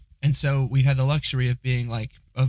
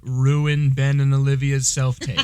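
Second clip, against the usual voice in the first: tannoy announcer. Retold or imitated. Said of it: "they're doing an announcement for drill".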